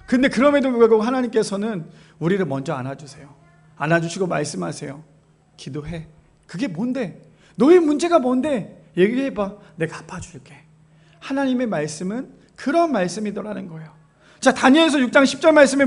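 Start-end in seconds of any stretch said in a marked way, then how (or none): 5.6-10.5 tender voice of God. Acted. 하나님의 다정하고 조용한 목소리.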